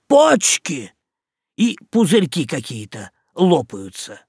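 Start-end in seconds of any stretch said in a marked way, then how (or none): 0.1-0.9 high loud cry; shout. A narrator's reading. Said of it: "Лоцман кричит".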